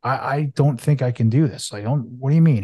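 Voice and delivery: retold anger. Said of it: "I got pissed".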